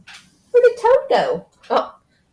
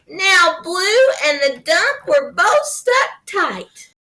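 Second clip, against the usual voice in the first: lively picture-book narration; reading to children; 5 semitones higher than usual. A narrator's reading. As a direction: read it to a small child with playful swings.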